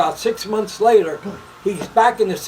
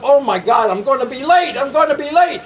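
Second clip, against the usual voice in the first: higher-pitched, rising alarm of a late sleeper; mock panic; 4 semitones higher than usual. Man waking up sure he'll be late, mock panic. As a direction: act out waking up in a rising fluster.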